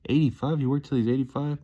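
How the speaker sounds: high-pitched disbelieving question; astonished. Real, not acted. Working out Dale worked till eighty-five, astonished. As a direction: lift the pitch in amazement.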